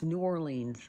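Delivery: "New Orleans" with both words sounded in full; pronounced as spelled. Shown as a demonstration. Insisting to viewers on the spelling, "New Orleans" as two full words. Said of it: "That is how it is spelled".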